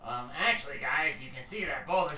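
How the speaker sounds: hesitant know-it-all cutting in; small orc trying to interject; third orc voice. Acted. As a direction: meekly correct two squabbling orcs. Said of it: "you hear a third voice".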